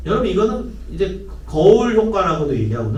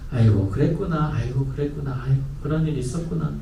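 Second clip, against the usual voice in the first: softer, gentle 아이고 그랬구나 falling; soothing acknowledgement; 3 semitones lower, 4 dB quieter than usual. Shown as a demonstration. Parent gently accepting what the child tells. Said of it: "인정해주는".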